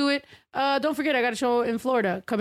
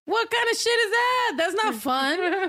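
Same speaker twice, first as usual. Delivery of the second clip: outraged disbelief; 9 semitones higher, slower than usual. Real, not acted. Mock outrage at the name.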